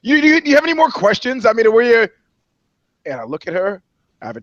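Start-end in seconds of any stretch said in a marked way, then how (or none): 0.0-2.1 much higher, stammering mock question; imitating Nia Long. Journalist mimicking actress asking about more questions, high mock voice. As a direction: play her flustered and pushy. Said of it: "she goes".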